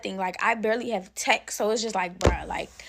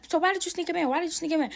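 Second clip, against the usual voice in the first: angry mother; 7 semitones higher, much faster than usual. Retold or imitated. Mother interrogating her daughter.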